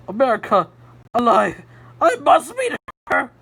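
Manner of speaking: loud, thrilled outburst; amazed excitement. A narrator's reading. July hearing America lives, a loud thrilled outburst. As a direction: burst out in stunned delight. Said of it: "July's mouth fell open".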